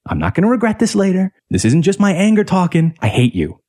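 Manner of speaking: intense angry tirade, held back from screaming; emphatic, imitated sibling fury; retold angry screaming. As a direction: spit out a retold rant without yelling. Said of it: "it was louder than this. I was screaming".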